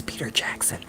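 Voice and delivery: hushed aside; whispering. Real, not acted. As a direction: whisper it like a secret. Aside about who should adapt.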